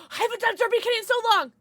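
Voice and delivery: tipsy, fast and loud chatter. Real, not acted. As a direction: talk like you're a little tipsy. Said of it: "I'm a little tipsy".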